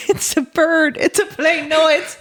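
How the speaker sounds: high-pitched, playful comic-book exclamation; mock superhero announcer. Co-host joking about bird in hair, mock-heroic.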